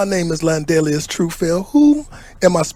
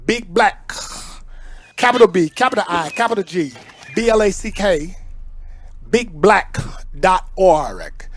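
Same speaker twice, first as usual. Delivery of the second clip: dictating; 2 semitones higher than usual. Acted. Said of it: "spelling out his email".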